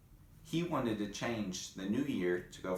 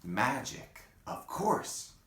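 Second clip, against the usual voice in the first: excited shout; 5 semitones higher, slower than usual. Acted. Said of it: "shouted Pip".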